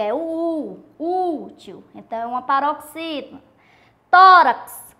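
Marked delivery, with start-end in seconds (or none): 0.1-1.8 "útil" with the first vowel "u" held long; stress on U. Shown as a demonstration. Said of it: "Qual é a sílaba tônica?". 4.1-5.0 "Tórax" with a loud, punched "Tó"; stress on TÓ. Shown as a demonstration. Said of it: "O tó".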